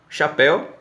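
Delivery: teacher highlighting the Portuguese word; stressed word. Shown as a demonstration. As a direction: hit "Chapéu" up high. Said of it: "a gente chama chapéu de chuva".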